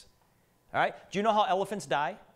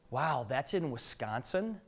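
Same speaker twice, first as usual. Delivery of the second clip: slow, wondering question, pitched lower; imitated amazement; 4 semitones lower, 4 dB quieter, slower than usual. Lady in the front row seeing the house photo, mock amazement. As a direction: mimic a lady marvelling, drawn out. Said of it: "She made it sound like".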